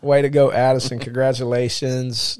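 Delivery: loud, proud congratulations; excited cheer. Real, not acted. Congratulating daughter on podcast.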